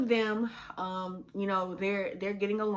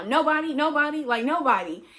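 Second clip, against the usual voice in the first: put-on frightened child answering; 6 semitones higher, 6 dB louder than usual. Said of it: "it just came out like".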